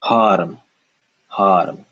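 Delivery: Haram said with no uh after the r; harm-like haram. Shown as a demonstration. Teacher models Haram without the uh. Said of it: "We got rid of uh".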